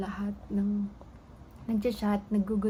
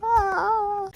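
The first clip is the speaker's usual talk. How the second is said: excited shout; 12 semitones higher, 8 dB louder than usual. Real, not acted. Crying out after passing exam.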